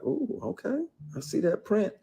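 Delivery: high teasing falsetto imitation; imitating the actress's coy come-on, high; mock flirty actress. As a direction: purr it up high like the flirt who grabbed him.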